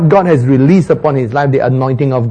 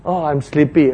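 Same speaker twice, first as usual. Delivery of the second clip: sleepy Moses; 4 dB quieter than usual. Acted. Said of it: "And Moses says".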